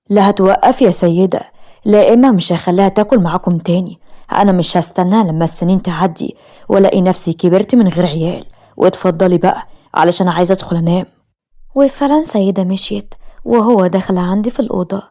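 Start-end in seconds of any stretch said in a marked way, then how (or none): 0.1-11.0 a firm, mildly raised angry voice; angry husband. Acted. Husband angrily ordering his sister to stop the pills, firm and heated. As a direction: put his foot down with his sister. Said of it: "وقال بغضب".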